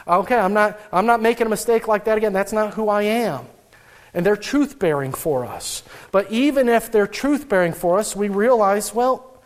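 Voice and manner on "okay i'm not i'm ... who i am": mock-pound the pulpit as you swear it off; pulpit-banging resolve. Person vowing never to repeat the mistake, mock pulpit-banging. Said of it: "banging on the pulpit".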